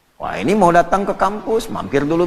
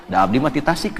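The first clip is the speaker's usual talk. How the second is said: Sundanese reply; 3 semitones lower than usual. Retold or imitated. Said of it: "udah disapa".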